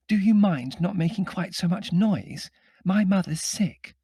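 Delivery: high, loud, slow woman's complaint; muted calling. A narrator's reading. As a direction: call down a strained, polite reproach. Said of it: "she called in muted tones".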